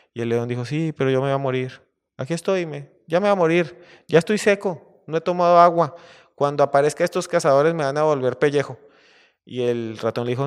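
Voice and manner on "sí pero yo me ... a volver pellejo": high, loud lament of a doomed lion; despairing lion. Acted. Trapped lion tells mouse he will die, loud lament. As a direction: wail your fate, acted and building louder.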